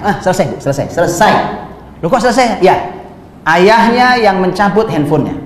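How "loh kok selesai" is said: surprised. Retold or imitated. Parent puzzled by ustaz answer.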